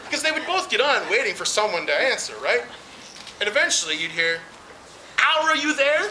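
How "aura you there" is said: cartoon dog voice. Imagined Scooby caller.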